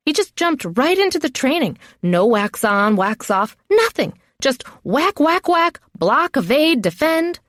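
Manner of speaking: high-pitched, exasperated rant; indignant protest. Acted. Trainee defending herself to the others, indignant protest. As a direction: complain in jumps of high pitch.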